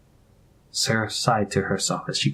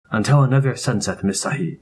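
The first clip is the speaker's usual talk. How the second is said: put-on Indian accent. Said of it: "The familiar cadences of his accent".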